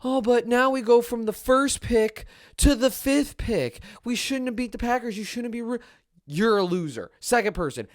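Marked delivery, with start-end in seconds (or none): 0.0-5.8 mocking whiny fan. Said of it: "The losers who sit around and go".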